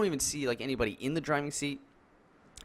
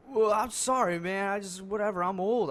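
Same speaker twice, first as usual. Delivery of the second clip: high-pitched mock apology; high put-on voice of a put-out older driver; imitated old guy; 8 semitones higher than usual. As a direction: mimic an old man apologizing grudgingly, voice way up. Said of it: "he's this old guy".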